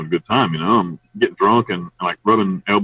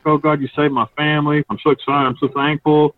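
grateful gush; 7 semitones higher than usual. Retold or imitated. Judge hugs him, grateful.

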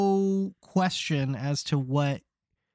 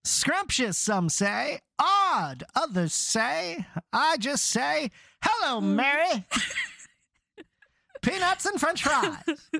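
put-on old-timey vendor; 5 semitones higher than usual. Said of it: "old-timey vendor patter".

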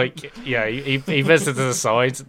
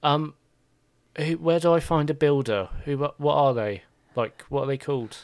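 lightly raised, unsure voice; nervous little chef; 4 semitones higher than usual. Acted. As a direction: ask like a lost apprentice. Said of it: "He's like".

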